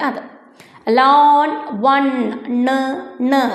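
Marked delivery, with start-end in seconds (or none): 1.0-3.4 ലോൺ and വൺ, then the final ണ് sound alone; demonstrated rhyming endings. Shown as a demonstration. Teacher showing pupils how both words end, demonstrated N ending. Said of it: "അങ്ങനെ നിർത്തിയില്ലേ".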